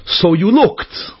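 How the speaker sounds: slow reading with a rising "looked"; exclamatory sticker slogan. Retold or imitated. Reading the van's sticker to listeners, exclamatory. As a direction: stretch it out as a teasing exclamation. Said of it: "Mit dieser Exclamation Point".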